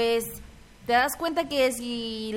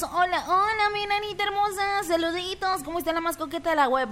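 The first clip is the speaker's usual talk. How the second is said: flirty greeting voice; 5 semitones higher than usual. Pretend. Reading a flirty chat greeting.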